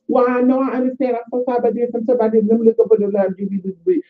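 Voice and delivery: lightly voiced high, sing-song apology; mock the manager's breezy sorry; mimicking the ghetto manager. Imitating the manager on the phone, high and breezy. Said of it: "She was so fucking ghetto".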